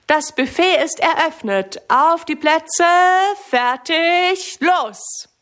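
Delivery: high-pitched announcer's call to the crowd. A narrator's reading. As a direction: call the start of a race, drawing it out. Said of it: "Patrick ruft ganz laut".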